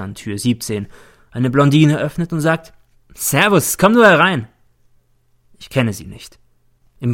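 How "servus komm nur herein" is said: bright high welcome, friendly and loud; casual Viennese welcome, pitched high; blonde greeting. A narrator's reading. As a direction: greet him like an old acquaintance. Blonde woman greets the narrator.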